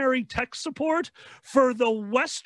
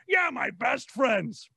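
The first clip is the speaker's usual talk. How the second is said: stressed slow "Yeah, my best friends" with a falling end; slow emphatic insistence; slower than usual. Retold or imitated.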